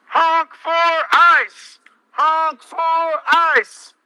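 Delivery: frat bro. Acted. Mocking cheers through a megaphone.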